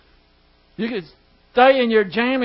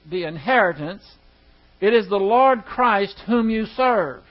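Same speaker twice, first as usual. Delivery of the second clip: measured, raised reading of the verse; scripture reading. Acted. Teacher reads the verse to his Bible class in a solemn reading voice. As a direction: read the verse out to the class with weight.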